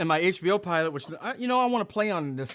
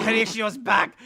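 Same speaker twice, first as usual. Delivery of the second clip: puppet announcing himself; 5 semitones higher, 3 dB louder than usual. Acted.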